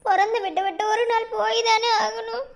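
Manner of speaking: choking up at leaving family; tearful. Acted. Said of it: "எதுக்கு இப்படி அழுதுக்கு இருக்க". (அழுகையோடு தழுதழுத்த குரல்)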